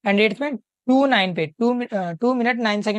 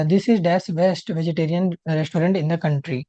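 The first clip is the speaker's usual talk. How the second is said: slow question read-out; 4 semitones lower, much slower than usual. Shown as a demonstration. Teacher slowly reading the exam question to the class. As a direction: read each word slowly and clearly. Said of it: "reading the question slowly aloud".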